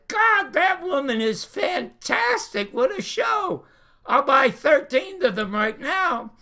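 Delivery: high-pitched, enthusiastic retold rave; imitating delighted excitement. Cigarette company president raving about a pilot, delighted. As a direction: play a sponsor bowled over by the show. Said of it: "who's laughing his ass off".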